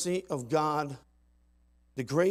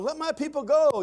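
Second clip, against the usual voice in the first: much higher, loud commanding cry; a prophet's demand thundered from the pulpit; Moses commanding; 12 semitones higher, 9 dB louder than usual. Acted. Moses to Pharaoh, loud commanding cry.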